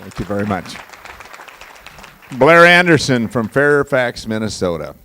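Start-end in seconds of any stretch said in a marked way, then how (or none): 2.4-5.0 announcer call. Real, not acted. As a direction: boom the name out like a ring announcer. Announcing graduate name.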